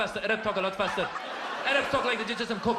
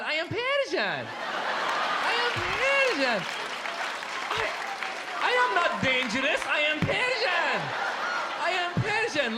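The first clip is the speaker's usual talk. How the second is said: smiling; 4 semitones higher than usual. Shown as a demonstration. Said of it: "We even smile".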